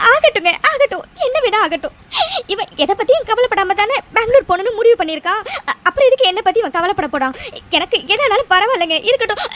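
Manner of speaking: hurt, tearful outburst; crying. Acted. Wife refusing comfort over her son leaving, crying. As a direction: sob out the bitter complaint. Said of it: "ஐயோ லட்சுமி, அழாதம்மா".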